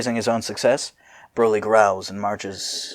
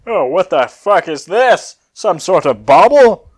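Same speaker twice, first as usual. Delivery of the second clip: puzzled Cell; 7 semitones higher, 7 dB louder than usual. Acted. Cell voiced in the story.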